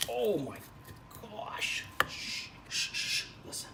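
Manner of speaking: soft hushed whisper; whispering over the cutting sounds; ASMR whisper. Acted. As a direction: shush the viewers gently, ASMR style. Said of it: "This is an A S M R".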